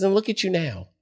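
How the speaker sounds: put-on high, teasing older-sister voice; imitating big sister. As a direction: mimic her needling him fondly. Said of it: "She says".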